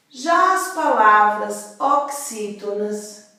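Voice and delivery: Já punched, the phrase drawn out slowly; slow down and lean on Já; slow emphatic teaching. Shown as a demonstration. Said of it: "teacher emphasizing slowly".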